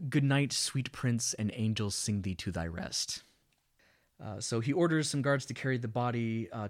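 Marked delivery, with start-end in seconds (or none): 0.1-3.2 deliberate, measured quote with room between phrases; slower recitation. Shown as a demonstration. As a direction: recite it slowly so it can be followed. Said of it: "but slower".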